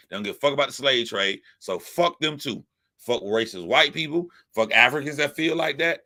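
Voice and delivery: ordinary talk, nothing marked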